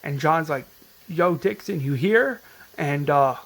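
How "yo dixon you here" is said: calling out. Retold or imitated. Calling into the rooftop.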